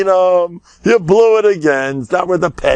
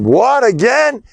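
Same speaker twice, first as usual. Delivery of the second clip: slow, high, stunned protest; can't believe he has to go back; drawn-out high what again; shocked disbelief; 8 semitones higher, slower than usual. Acted. Soul shocked at second sentence.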